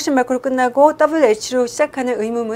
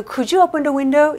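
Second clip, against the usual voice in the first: polite slow request; 4 semitones higher, much slower than usual. Shown as a demonstration. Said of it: "윗사람한테 부탁을 할 때".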